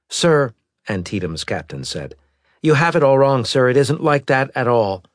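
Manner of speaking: high, loud pleading; urgent protest. Acted. Captain protests.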